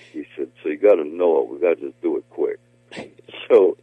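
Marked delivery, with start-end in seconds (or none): 0.6-2.6 lightly done Stallone voice, louder; a touch of Sylvester Stallone; Sly impression. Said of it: "the Sly impression".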